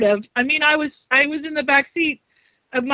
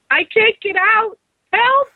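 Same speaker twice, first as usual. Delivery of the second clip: mock panic; 10 semitones higher, slower than usual. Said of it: "and I'm like".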